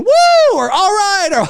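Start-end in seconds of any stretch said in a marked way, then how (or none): 0.0-0.6 loud high whoop. Retold or imitated. Audience member hooting at a big moment, loud high whoop. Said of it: "hoots and hollering". 0.7-1.3 high, loud all right; cheering. Retold or imitated. Fan cheering the screen, loud and high. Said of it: "hoots and hollering".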